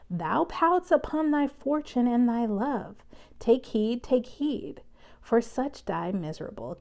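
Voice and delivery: performed reading of Romeo and Juliet; dramatic reading. Shown as a demonstration. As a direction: read the friar's speech with some drama. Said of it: "let me read it".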